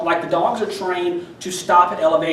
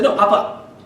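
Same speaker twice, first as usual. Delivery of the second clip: firm correction; 3 semitones higher, 4 dB louder than usual. Retold or imitated. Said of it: "pop on his collar a little bit and say".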